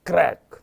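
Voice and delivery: sharp loud क्रैक like snapping wood; crack sound. Shown as a demonstration. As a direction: snap it out like a breaking log. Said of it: "तोड़ते हैं तो क्रैक". (लकड़ी टूटने जैसी तेज़ क्रैक)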